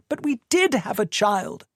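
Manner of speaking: high anguished protest; crying out. A narrator's reading. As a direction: cry it out at him. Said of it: "Tamsin cried".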